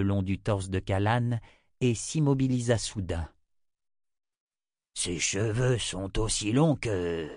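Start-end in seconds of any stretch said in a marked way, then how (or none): 4.9-7.3 dawning realization. Acted. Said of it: "commença-t-il".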